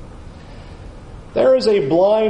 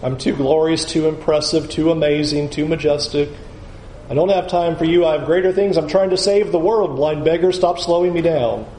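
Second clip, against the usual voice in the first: pompous; 4 semitones lower than usual. Pretend. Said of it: "Jesus doesn't say".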